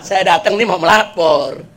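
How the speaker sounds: slow, sheepish report with a slight giggle; lightly acted embarrassed grinning complainant; sheepish giggly. Visitor admits his errand to the Caliph, sheepishly giggling. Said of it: "ngomongnya sampai cengengesan dah".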